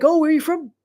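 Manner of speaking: imitated Irish accent. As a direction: mimic a chatty Irish accent. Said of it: "This is actually how they talk".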